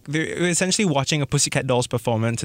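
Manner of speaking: ordinary talk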